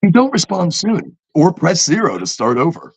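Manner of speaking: lightly mimicked automated warning; a hint of robotic phone menu; computer bot. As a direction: read it like a recorded prompt. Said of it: "computers will go".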